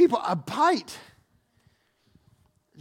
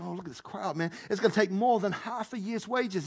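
much softer, counting under his breath; muttered calculation; 5 dB quieter than usual. Acted. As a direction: Philip quietly totting up the cost. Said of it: "he's thinking".

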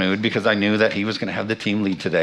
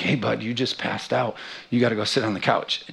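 calm dad; 5 dB quieter than usual. Retold or imitated. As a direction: gently bring him round, no panic. Dad calmly waking concussed son.

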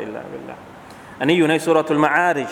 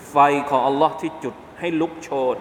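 normal talking voice

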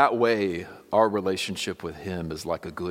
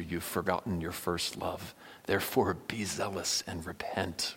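hushed rebuke; 6 dB quieter than usual. Pretend. Jesus' rebuke, fading to whisper.

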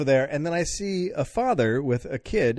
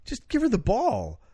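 inner voice; 13 semitones higher than usual. Retold or imitated. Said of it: "something in my head going".

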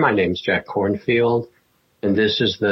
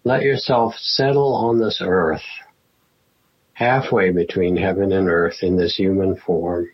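guided meditation. Acted. Teacher settling the class into a sitting practice, guided meditation. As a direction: ease them gently into stillness, phrase by phrase.

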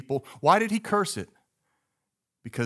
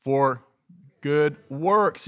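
good works, both words said fuller and louder; louder emphatic repeat; 3 dB louder, much slower than usual. Shown as a demonstration. Pastor urging the congregation to repeat it, louder emphasis. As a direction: call it out with more force for the church to echo. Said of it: "Let's say that again".

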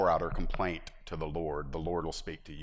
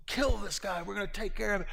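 David ordering; 13 semitones higher than usual. Retold or imitated. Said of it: "and he's".

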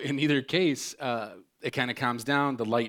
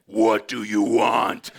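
loud, slow, snarled demand; snapping at the kid; 9 dB louder, much slower than usual. Retold or imitated. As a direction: bark it at the kid with the phone covered. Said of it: "She puts that, she's like".

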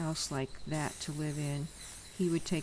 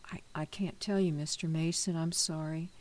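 fast, stammering whisper; scared whisper. Acted. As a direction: whisper it out of fear. Scared boy refusing to tell.

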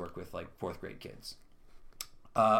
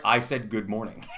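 laughing disbelief. Retold or imitated. Retelling a baffling text reply.

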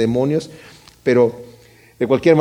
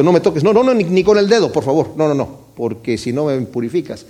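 burlón. Retold or imitated. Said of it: "pero en ese momento".

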